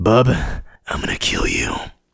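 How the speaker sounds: very low, slow, dragged-out, menacing delivery. Retrying an impression while recounting a Hulk versus Wolverine fight, Wolverine impression. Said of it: "Let me try again".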